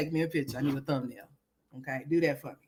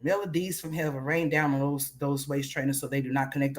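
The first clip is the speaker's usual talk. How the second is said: whispered, lower, like a hushed blessing; mock prayer whisper; 8 semitones lower, 7 dB quieter than usual. A streamer mocking a viewer's waist trainer whispers a fake prayer. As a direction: breathe it out as a mock benediction.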